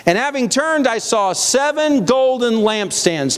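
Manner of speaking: high, measured Bible reading; scripture reading. A narrator's reading. Preacher reading the vision to his congregation, proclaiming.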